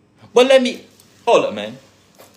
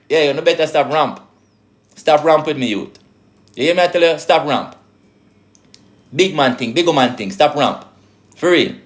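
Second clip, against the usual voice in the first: put-on Jamaican patois accent; 3 semitones lower than usual. Scolding the youth in a Jamaican patois accent. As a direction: drop into a low Jamaican patois lilt. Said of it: "I'm becoming more my, my natural self".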